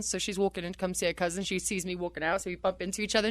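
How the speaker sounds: ordinary delivery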